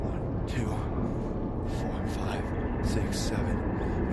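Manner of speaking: breathy whispered count, very slow at the end. Real, not acted. Counting jumps under breath.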